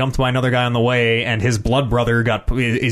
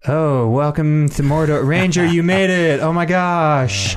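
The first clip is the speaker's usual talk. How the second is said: put-on light Indian accent, a bit slow; a hint of an Indian-accented orc greeting; slower than usual. Comedian's orc greeting the Ranger, lightly accented. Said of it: "this guy's like".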